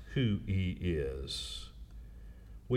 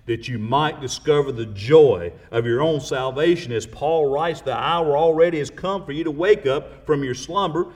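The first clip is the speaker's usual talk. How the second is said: preaching at full force; 4 dB louder than usual. Acted. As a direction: rise to a fervent close. Preacher building to closing climax.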